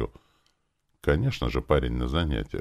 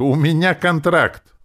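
high, loud, slow squeal; indignant shriek; 13 semitones higher, 8 dB louder, slower than usual. A narrator's reading. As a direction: protest in a screechy high voice. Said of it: "завизжала Настенька".

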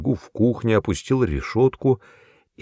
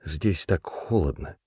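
put-on timid girl; 4 semitones lower, 7 dB quieter than usual. A narrator's reading. Cold frightened girl answers.

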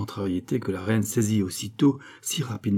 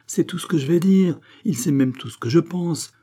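raised, higher voice with bitterness; understated angry outburst from a queen; bitter retort; 8 semitones higher, 4 dB louder than usual. A narrator's reading. Queen recalls a bitter scene with Gilbert, bitter retort. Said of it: "ajouta-t-elle avec un souvenir amer".

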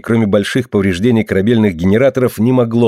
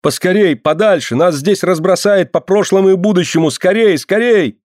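much higher frantic pleading; panicked; 8 semitones higher than usual. Acted. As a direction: urge them to flee in terror. Alien urges flight in panic.

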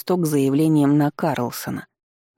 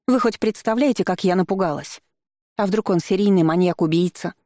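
agitated outburst; 5 semitones higher than usual. Acted. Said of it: "Снова перешла она на крик".

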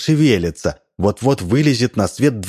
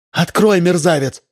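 yelling; 8 semitones higher than usual. A narrator's reading. Wife yelling at husband behind door. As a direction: scream at him through the door. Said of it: "вопила она".

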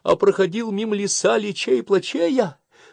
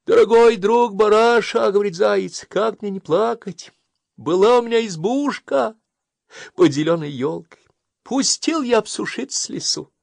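a touch of crying hare; 13 semitones higher, 9 dB louder than usual. Acted. Заяц жалуется барану.

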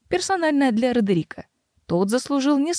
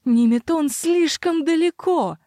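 sputtering foiled villain; 8 semitones higher, slower than usual. Acted. Roderick raging, cornered.

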